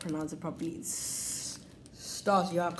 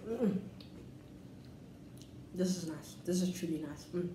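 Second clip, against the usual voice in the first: talking while chewing; 7 dB quieter than usual. Real, not acted. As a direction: mouth partly full. Seen 1: holds biscuit at lips, chewing between bites while speaking.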